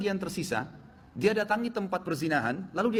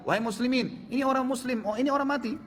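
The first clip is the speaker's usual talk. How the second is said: calling out again; 8 semitones higher than usual. Acted. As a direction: call out to the street, pleading for help. Sultan calls out a second time. (seruan keras dengan nada tinggi)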